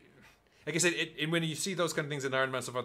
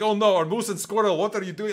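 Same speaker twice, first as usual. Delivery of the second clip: mock Russian accent; 5 semitones higher, 4 dB louder than usual. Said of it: "basing her accent around Dexter's Laboratory".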